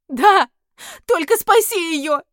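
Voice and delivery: loud high pleading yes; desperate shout. Acted. Heroine answers the demon, shouting desperately. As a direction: burst out in desperate plea.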